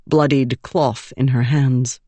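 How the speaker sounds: ordinary delivery, nothing marked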